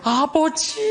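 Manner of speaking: mock loud prayer. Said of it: "통성 기도를 하는 거야".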